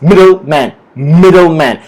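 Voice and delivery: "middleman" with a strong MID and falling end; stress on MID. Shown as a demonstration. Teacher restating the rule, stress on MID in middleman. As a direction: hit MID first in "middleman". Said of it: "The stress is on the word mid".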